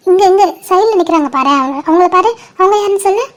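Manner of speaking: doting, playful quizzing of a little one; baby talk. Acted. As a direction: prompt a baby to name who is there. Asking a baby to name people.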